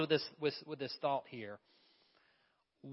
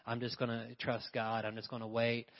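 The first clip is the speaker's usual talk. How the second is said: lazy believer impression; 2 semitones lower, 4 dB quieter than usual. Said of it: "You know how it is".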